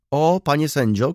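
high, loud exclamation; crying out. A narrator's reading. Baroness protests to the judge, crying out. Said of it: "krzyknęła baronowa".

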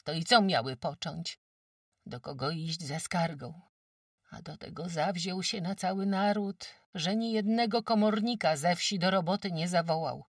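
a brisk countrywoman sizing up a sick guest; sturdy farmwife. Acted. Farmwife Kłębowa tells old Agata she's too weak, brisk. Kłębowa recounts the forest fight.

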